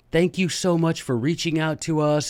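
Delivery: a hint of a polite English voice; light British politeness. Teacher imitating the secretary's email, light polite British accent. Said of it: "very British and polite".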